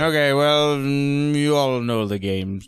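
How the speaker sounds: lightly voiced grumpy tavern host; a hint of a theatrical old barkeep; Usador. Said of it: "channeling Usador a little bit".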